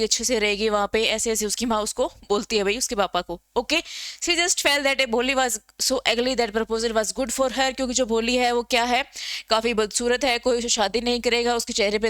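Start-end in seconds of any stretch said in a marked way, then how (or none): 4.2-7.7 slow, careful textbook reading; reading the text aloud. Shown as a demonstration. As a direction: read it out word by word for the class. Reads the English textbook line.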